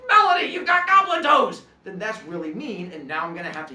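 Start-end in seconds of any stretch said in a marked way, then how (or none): 0.1-1.6 high, loud mock-kid taunt; mock insult. Kid suddenly taunting Melody in class, high loud jeering. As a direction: yell it like a kid teasing a classmate. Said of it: "he's like".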